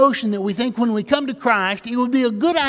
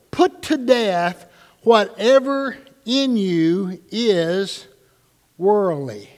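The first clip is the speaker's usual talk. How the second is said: grave preacher reading the verse; emphatic scripture reading; much slower than usual. Shown as a demonstration. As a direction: lean on every word of the command. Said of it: "could have been more emphatic".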